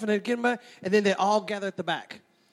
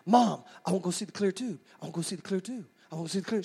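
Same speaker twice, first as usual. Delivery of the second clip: put-on pestering kid; 4 dB quieter, faster than usual. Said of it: "I would wear my mom out".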